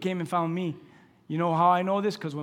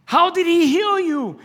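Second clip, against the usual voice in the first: high, slow, loud demanding question; questioning Pharisee; 13 semitones higher, 11 dB louder, slower than usual. Acted. Pharisee grilling the healed blind man, loud and high. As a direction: press him like a suspicious Pharisee.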